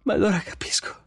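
high, halting words with long gaps; stunned, piecing it together in a high voice; dawning realization. A narrator's reading. Susan realizing in the story.

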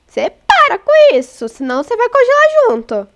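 high-pitched telling-off; playful scolding. Real, not acted. Player warning Emanuel to stop, playful scolding.

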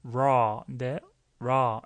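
"raw" with tongue pulled only halfway back; weak R. Shown as a demonstration. Teacher explains the recorded speaker's pronunciation, weak R. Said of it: "R 발음을 좀 약하게 했죠".

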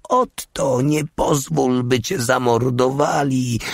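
put-on high, desperate cry of a young woman; piercing scream. A narrator's reading. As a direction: scream his name in terror. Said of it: "wydała przenikliwy wrzask". (przenikliwy, rozpaczliwy krzyk)

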